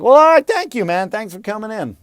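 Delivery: high, loud, over-cheery brush-off; mock-polite producer send-off; dismissive producer. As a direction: cut the audition short in a high voice. Producer dismisses him from audition.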